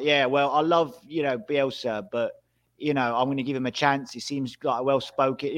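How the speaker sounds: lightly put-on Yorkshire accent. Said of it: "that accent you just threw on there".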